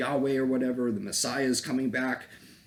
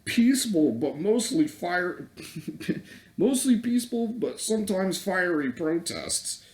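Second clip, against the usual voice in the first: high, mocking voice, laughing midway; mock reporter, pitched way up; mocking newscaster; 6 semitones higher than usual. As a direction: parody the news line in a sing-song high voice. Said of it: "They're the same people that said".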